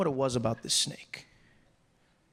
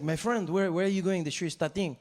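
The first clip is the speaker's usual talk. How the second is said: imitating a Frenchman's accented English; French accent; 2 semitones higher than usual. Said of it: "the French guy turns to me".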